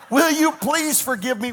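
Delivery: breaking into a laugh mid-plea; laughing apology. Retold or imitated. Retold plea to the stranger, laughing through it. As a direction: laugh through "will you please forgive me".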